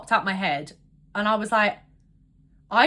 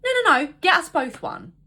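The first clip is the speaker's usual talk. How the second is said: high, pushy imitation of the date; insistent date; 5 semitones higher, 4 dB louder than usual. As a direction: mimic him pressing the drinks on her. Date insisting on more drinks.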